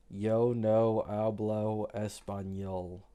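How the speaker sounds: "yo no hablo español" said slowly in Spanish; slow, deliberate "yo no hablo español". Shown as a demonstration. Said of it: "Speak Spanish?".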